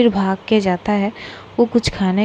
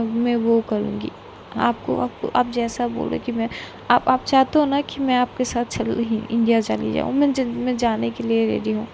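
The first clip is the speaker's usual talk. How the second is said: soft, broken pleading with stammers; tearful pleading; 3 semitones higher, 5 dB quieter than usual. Acted. Girl begging the one who cares for her not to leave, tearful pleading. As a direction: beg quietly through tears, halting.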